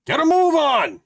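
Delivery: high, loud angry yell; angry shout. Acted. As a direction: bellow his name at the locked door. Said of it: "you shout angrily".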